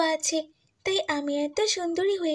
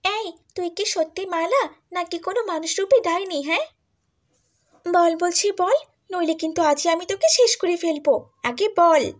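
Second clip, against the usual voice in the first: louder and louder, yelling at her sister; furious threat; 4 dB louder than usual. Acted. Jealous sister yells at Mala, demanding the truth, furious shout.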